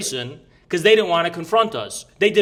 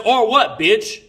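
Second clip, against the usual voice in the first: retold taunt; 4 semitones higher, 5 dB louder, slower than usual. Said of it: "I said".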